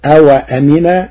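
أوأمن with a silent waw; أوأمن ويسكّن الواو فيه; pron. Shown as a demonstration. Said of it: "بإسكان الواو". (أوأمن بإسكان الواو)

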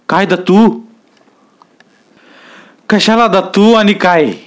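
a scared man who cannot answer; dazed fumbling. A narrator's reading. Stunned watchman fumbles for words. (गोंधळून अडखळत)

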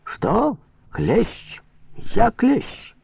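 very high rising questions; offended squeak, each word flung upward; indignant disbelief. Acted. Trader called a tick, high-pitched outrage.

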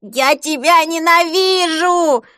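slow, high, loud hateful wail; screaming child. Acted. Boy on the bed screaming hatred at his mother. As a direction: wail it at her as a raging child. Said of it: "вопил он".

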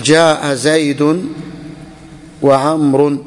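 very slow, stretched words for dictation; slow example. Shown as a demonstration. Teacher dictating the example sentence to the class, very slowly. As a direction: give each word its own slow beat. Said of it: "تقول".

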